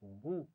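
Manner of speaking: بو said with a lip stop and a short round u; بو said calmly, not long, no jolt; model syllable. Shown as a demonstration. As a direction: close the lips, release a soft short بو. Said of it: "پیش کے ساتھ پڑھیں گے".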